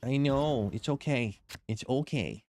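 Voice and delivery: soothing the dog. Real, not acted.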